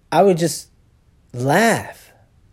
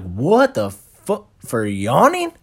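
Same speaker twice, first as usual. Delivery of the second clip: disbelief; much slower than usual. Retold or imitated. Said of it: "And I was like".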